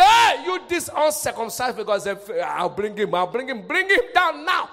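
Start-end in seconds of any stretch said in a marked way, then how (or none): 0.0-1.8 bold challenge. Acted. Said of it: "The moment David came and said".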